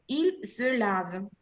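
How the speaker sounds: "se" said with a barely heard E, slowly; E nearly lost. Shown as a demonstration. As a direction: swallow the E of "se". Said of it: "se pierde un poco el sonido de E". (la E de "se" casi no se escucha)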